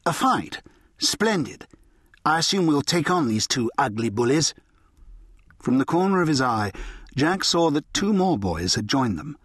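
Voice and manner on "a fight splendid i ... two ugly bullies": cool. Acted. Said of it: "A cool voice said".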